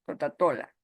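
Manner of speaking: put-on toddler mispronunciation. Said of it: "dicen tota".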